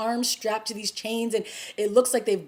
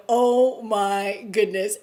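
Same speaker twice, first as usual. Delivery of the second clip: drawn-out, louder awestruck reaction; stunned awe; 5 dB louder, much slower than usual. Retold or imitated. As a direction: imitate a viewer gasping in slow amazement. Retold viewer's stunned reaction.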